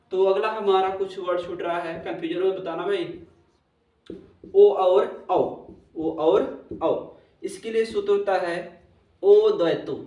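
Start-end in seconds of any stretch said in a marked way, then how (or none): 4.6-5.4 ओ और औ called out louder; firm announcement. Shown as a demonstration. Teacher announcing the next vowels to the class, loudly. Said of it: "teacher introduces vowels". 6.0-7.2 ओ और औ drawn out very slowly; very slow dictation. Shown as a demonstration. Teacher dictating the vowels to students, very slowly. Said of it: "teacher repeats vowels slowly".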